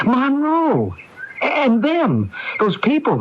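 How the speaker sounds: high, frantic cry of fear; panicked outburst. Acted. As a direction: blurt the names out in rising panic. Panicking about the mob.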